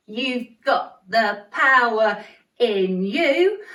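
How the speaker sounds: slow, got and power punched; stress on got and power. Shown as a demonstration. Teacher showing the kids, slow stress on got and power. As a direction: drive got and power home. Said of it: "There's that got and power again".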